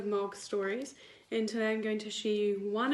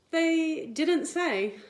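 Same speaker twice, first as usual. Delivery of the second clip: slow build-up; 6 semitones higher, 6 dB louder, much slower than usual. A narrator's reading. Slowed before contrast.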